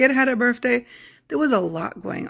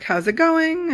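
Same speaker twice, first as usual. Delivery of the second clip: pitched way up, forced brightness; frantic cheerful greeting; 9 semitones higher, slower than usual. Retold or imitated. Mom bursting into the house, greeting family with forced high cheer. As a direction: overbright hello, masking stress. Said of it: "I walked in the house".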